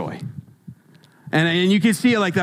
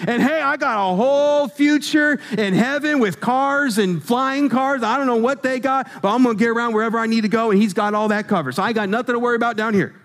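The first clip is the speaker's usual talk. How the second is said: excited coworker; 3 semitones higher than usual. Pretend. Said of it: "Man, I got the Holy Ghost".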